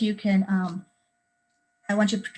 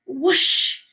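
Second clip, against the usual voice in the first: whoosh; 4 semitones higher, 6 dB louder than usual. Shown as a demonstration. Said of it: "You use the onomatopoeia".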